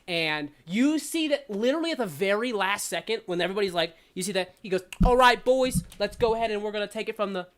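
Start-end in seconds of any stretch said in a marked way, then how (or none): 5.1-7.5 loud call, then rushing on fast; rally the band, then rattle on; bandleader. Acted. GM voices bandleader.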